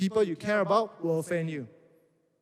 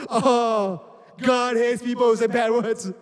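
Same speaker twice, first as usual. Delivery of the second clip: high, louder, in a put-on pious voice; hammed-up holier-than-thou preaching; mock self-righteous; 5 semitones higher, 7 dB louder, slower than usual. Mocking his teenage self scolding his friend, pious put-on voice. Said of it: "all my response was".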